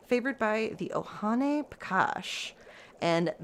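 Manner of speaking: slow, garbled, breaking into laughs; stumbling laughing. Real, not acted. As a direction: fight laughter through hard names. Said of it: "I'm so sorry".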